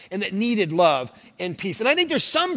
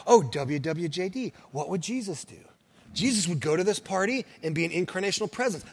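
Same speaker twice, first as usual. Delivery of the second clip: mock pious believer; 5 semitones lower, 7 dB quieter than usual. Mimics believers quoting the WWJD slogan.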